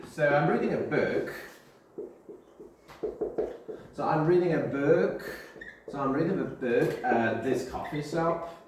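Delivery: light American accent on an anecdote; lightly American storytelling voice. Shown as a demonstration. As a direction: start a casual story with a hint of American accent. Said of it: "I'm using sort of American accent".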